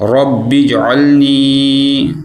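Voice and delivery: اجعلنی with the j echoing, slow; qalqalah on jeem. Shown as a demonstration. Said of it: "قلقلہ کریں گے".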